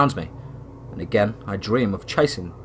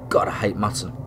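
soft unvoiced grumble; whispered aside; 3 semitones lower, 6 dB quieter than usual. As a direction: whisper it under your breath. Private grumble at the food.

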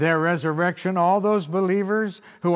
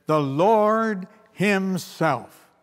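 "The Lord himself" drawn out very slowly, weight on "Lord"; emphatic Lord himself; 2 semitones higher, much slower than usual. Shown as a demonstration. Preacher stressing to the congregation that it is the Lord himself, slow and weighty. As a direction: lean hard on "Lord" and let "himself" fall. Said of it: "It makes it more emphatic".

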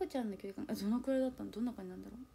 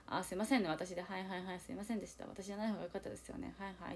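小さく投げやりに謝る; すねて卑屈につぶやく; いじけた自嘲; 3 semitones lower, 8 dB quieter than usual. Retold or imitated. 卑屈な自嘲の心の声. (小声でいじける)

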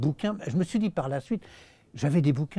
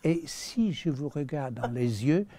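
imitating Rex Harrison. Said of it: "alors il parle comme ça".

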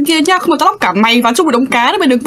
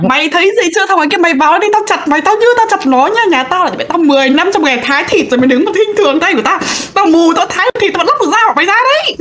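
character threat; 4 semitones higher than usual. Acted. Player voicing character threatening monster.

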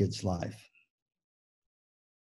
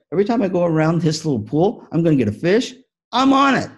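higher, quick, eager whale voice; Shamu getting it; 5 semitones higher, 4 dB louder, faster than usual. Acted. Speaker voices Shamu for teachers, higher and eager. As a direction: pick up speed as she catches on.

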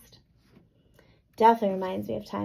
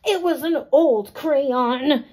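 grouchier voice; 4 semitones higher, 4 dB louder, much slower than usual. A narrator's reading. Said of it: "maybe I should use crabbier and grouchier voices".

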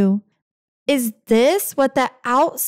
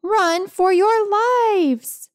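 high, slow hammed-up alarm; mock panic; 6 semitones higher, slower than usual. Cat warns the household about the monster, hammed-up high panic. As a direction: cry the warning like a cartoon hero.

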